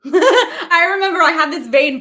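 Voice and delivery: real giggles spilling into the words; laughing. Real, not acted. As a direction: tell it through laughter. Laughs at her own memory.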